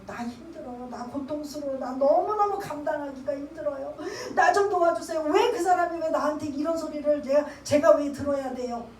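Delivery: a retold prayer half-cried, rising to a plea; weeping prayer. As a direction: mimic sobbing out your pain to God. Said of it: "막 울며 불며 막 이르고".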